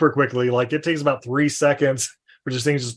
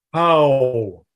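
mock stereotyped greeting; 5 semitones lower, much slower than usual. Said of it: "he's like".

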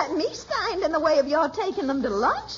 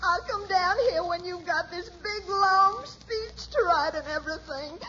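crying. Acted. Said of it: "what are you crying about?".

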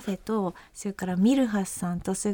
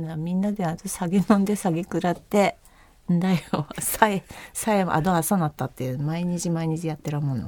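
role-played Akita dialect ramble; 4 semitones lower than usual. Classmate describing nights of drinking, Akita dialect. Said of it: "ちょっと秋田弁で話してみたい".

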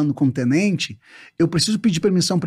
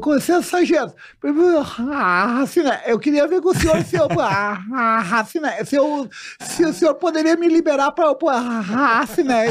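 higher-pitched, blocking stammer; stuttering soldier; 6 semitones higher than usual. Acted. Stutterer asking his sergeant for leave, blocking and stammering. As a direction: get stuck, then push out the filler word. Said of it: "ele travava e acabava criando uma palavra".

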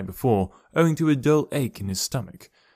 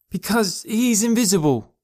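put-on much higher small boy voice, certain; matter-of-fact boy; 11 semitones higher than usual. Boy explains to his father, in a high childlike voice. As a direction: state it like the obvious truth.

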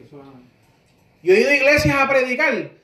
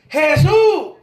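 calling out; 4 semitones higher, 5 dB louder than usual. Retold or imitated. Blind man calling out to Jesus.

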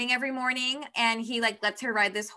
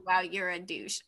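soft insult through a laugh; 5 semitones lower, 7 dB quieter than usual. Retold or imitated. Retelling the heroine's comeback to her friend, laughing softly. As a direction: toss the jab off with a giggle.

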